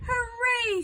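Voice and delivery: loud, high cheer of triumph; joyful shout. A narrator's reading. Boy finding the monster, shouting hooray. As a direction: throw the cheer out with delight. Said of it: "shouted George".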